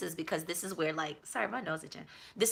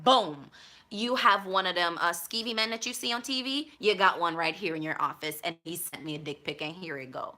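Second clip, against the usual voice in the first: mock confrontation. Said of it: "be like".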